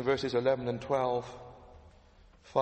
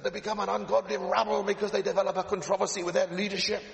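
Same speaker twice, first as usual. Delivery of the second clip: put-on Paisley accent; 5 semitones higher, faster than usual. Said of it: "Ian Paisley accent".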